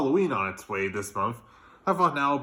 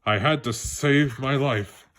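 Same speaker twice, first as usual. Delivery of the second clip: put-on lively read-aloud for children; animated children's book reading; story narration. A narrator's reading. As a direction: tell it like a bedtime story to kids.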